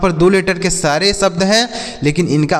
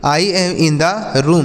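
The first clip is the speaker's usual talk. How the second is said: very slow; much slower than usual. Shown as a demonstration. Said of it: "जैसे".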